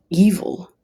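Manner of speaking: breathy whispered emphasis; hushed, appalled whisper; whispered evil. Real, not acted. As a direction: drop to a whisper on the word. Emphatic condemnation of ex.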